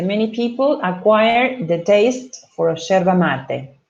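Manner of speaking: careful, slow classroom reading of English. Shown as a demonstration. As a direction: read the example slowly for students. Reads English example aloud.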